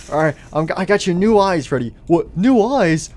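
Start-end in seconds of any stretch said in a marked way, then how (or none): 2.1-3.1 surprised delight. Acted. Freddy learns of upgrade.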